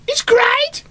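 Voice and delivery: very high, squeaky Black Country puppet voice; Black Country accent. Shown as a demonstration. Puppet character enthusing, high squeaky Black Country voice. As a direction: cheer it sky-high in Black Country tones. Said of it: "both Big and Small are from the Black Country".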